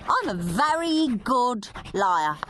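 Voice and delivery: a hint of a cheeky schoolboy, slow and gleeful; a touch of a mischievous big brother; lightly voiced naughty boy. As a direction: relish every rude word like a scamp. Henry's fake confession.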